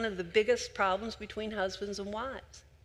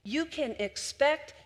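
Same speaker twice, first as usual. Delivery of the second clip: higher, lifted repeat; rising emphasis; 6 semitones higher, slower than usual. Shown as a demonstration. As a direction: lift the repeat up with conviction. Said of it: "And when you listen carefully".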